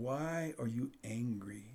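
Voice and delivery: soft, slow asking; gentle question. Shown as a demonstration. God asking Cain gently, soft and slow. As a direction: ask it quietly and slowly. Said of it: "he asked the question".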